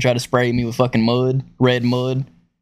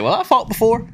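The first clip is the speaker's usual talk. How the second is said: lightly voiced boasting coworker, pitched up; mock tough guy; 11 semitones higher than usual. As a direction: toss it off like a cocky rookie. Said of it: "He's like".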